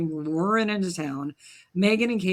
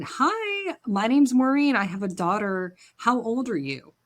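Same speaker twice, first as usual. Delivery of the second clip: high, bright-eyed mom greeting a stranger; chirpy mom voice; 5 semitones higher, slower than usual. Retold or imitated. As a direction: mimic an eager, friendly mother, pitched high. Mom approaching girl, retold.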